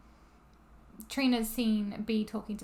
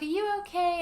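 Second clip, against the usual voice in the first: high-pitched mock motherly check-in; a hint of concerned mum, pitched high; lightly voiced mum; 8 semitones higher than usual.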